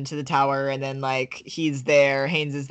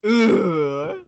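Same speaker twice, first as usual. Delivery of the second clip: drawn-out ooh; 5 semitones higher, 5 dB louder than usual. Real, not acted. Reacts to phallic imagery question.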